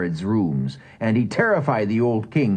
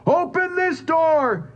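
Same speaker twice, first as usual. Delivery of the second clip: slow, much higher roared order; roaring; slower than usual. A narrator's reading. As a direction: demand it, word by word. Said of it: "Joseph roared".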